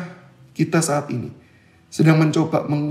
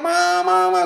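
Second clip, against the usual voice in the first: high, loud call for mom; 13 semitones higher, 3 dB louder, much slower than usual. Retold or imitated. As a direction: call for the lost mother across the shop. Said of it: "Saya teriak". (memanggil mama dengan nada tinggi)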